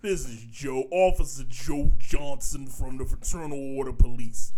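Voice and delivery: lightly voiced Brooklyn cop; a hint of a New York cop asking for money; a mild Brooklyn accent on a phone pitch. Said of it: "Why do you sound like you're from Brooklyn".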